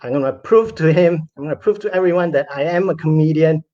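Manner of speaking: mildly indignant vow, pressing on PROVE. Retold or imitated. Comedian vowing to prove himself to everyone, indignant. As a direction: insist on it, retelling a wounded resolve. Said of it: "just indignant".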